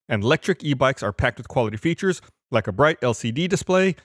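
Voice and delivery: upbeat sponsor read, bright and brisk. Acted. Podcast host reading an e-bike sponsor spot, upbeat ad read. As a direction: sell the bikes like a radio spot.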